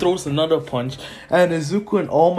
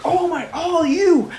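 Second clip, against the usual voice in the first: high, drawn-out mock yell; acted-out hero shout; urgent battle call; 4 dB louder than usual. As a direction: call your partner in, voice soaring. Acted call to partner mid-fight.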